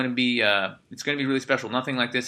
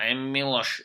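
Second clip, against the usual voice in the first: lightly put-on Eastern European accent; mock Serbian accent. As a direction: say your name like a tough Serbian. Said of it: "I don't know if it's just funny to me".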